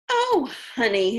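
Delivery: a light, mild coo of a mother; lightly voiced mom cooing fondly. A narrator's reading. Mom on the phone greeting her son, a touch cooing. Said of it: "his mom cooed".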